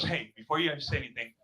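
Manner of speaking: imitating her low, subdued apology; low-pitched mock contrite girlfriend; apologizing. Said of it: "she starts apologizing".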